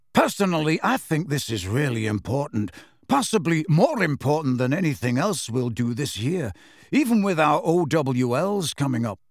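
lightly voiced, impressive young speechmaker; mildly pompous character voice; self-important schoolboy. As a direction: hold forth as if expecting applause.

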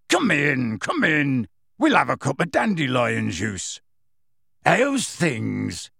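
put-on hearty country-accented host; friendly rustic gamekeeper. A narrator's reading. Gamekeeper inviting his young friend in, heartily. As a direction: welcome a friend in warmly, rustic voice.

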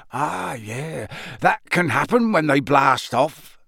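offhand big-man voice shrugging it off; unbothered gamekeeper calming a pupil; casual Hagrid. Acted.

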